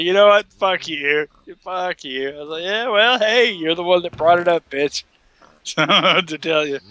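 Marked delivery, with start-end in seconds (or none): 0.0-2.3 high, loud retold comeback; hammed-up offended outburst; mock indignation. Retold friend hitting back at teasing. 2.6-5.0 high, loud retold comeback; hammed-up bickering; mock defiant retort. Retold teasing comeback in bar quarrel.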